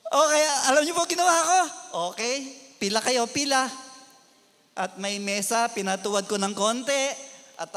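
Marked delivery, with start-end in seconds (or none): 0.1-3.7 loud, brisk order; line them up firmly; commanding. Retold or imitated. Pastor ordering the youths to line up for punishment.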